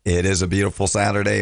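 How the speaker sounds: scratchy voice; sore throat. Real, not acted. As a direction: speak with a slightly scratchy throat. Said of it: "My voice is a little scratchy today".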